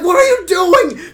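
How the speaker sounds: slow, high, loud wailing shout; high wailing yell; panicked cry. Acted. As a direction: cry it out in alarm. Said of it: "I'm like".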